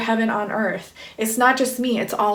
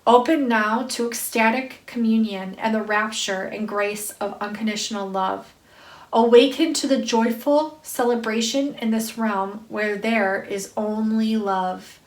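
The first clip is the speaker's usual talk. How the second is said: spiritual card reading. Acted. Reader to listeners awakening them to love, intoned spiritual reading. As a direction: read it as a measured invocation. Reads card message aloud.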